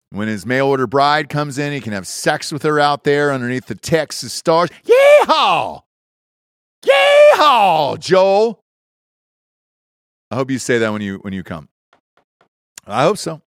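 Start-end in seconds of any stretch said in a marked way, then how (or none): 4.8-5.8 loud, high whooping yeehaw; cowboy yeehaw. Pretend. Host whoops at Joel for his Texas RV, loud cowboy holler. 6.8-8.6 loud, high whooping yeehaw; cowboy yeehaw. Pretend. Host whoops at Joel for his Texas RV, loud cowboy holler.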